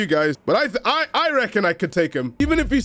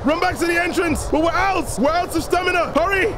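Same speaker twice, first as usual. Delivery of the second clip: higher, frantic rush to the exit; shouting through the final sprint; excited; 6 semitones higher than usual. Real, not acted. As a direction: urge yourself on, real panic-excitement. Racing to finish the level.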